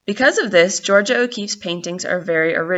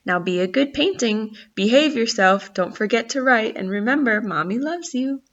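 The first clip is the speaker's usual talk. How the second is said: fond mother voice; 4 semitones higher than usual. Acted. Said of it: "They were almost like her children".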